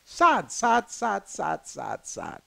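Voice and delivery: sad said over and over, fading away to nothing; fading sad repetition. Real, not acted. Host lamenting the paralyzed man, fading to a murmur. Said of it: "It is so sad".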